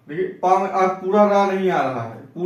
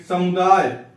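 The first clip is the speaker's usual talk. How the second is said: समुदाय with weight on the first syllable स; समुदाय, leaning on स before मु; stress on स; slower than usual. Shown as a demonstration. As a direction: press the स at the start of समुदाय. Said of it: "यहां भी सा पे बल पड़ रहा है".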